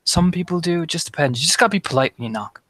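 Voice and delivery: lightly voiced pleasant girl; a mildly pleasant, chatty character voice. Girl advising the newcomer about knocking, lightly pleasant. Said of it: "you just hear actually a very pleasant voice".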